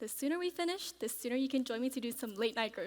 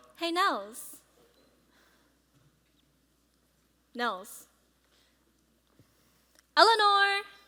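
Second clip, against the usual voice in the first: very loud, high yell; 6 semitones higher, 12 dB louder than usual. Calling out to Eleanor while she is in the middle of packing, yelling. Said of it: "why are you yelling at me?".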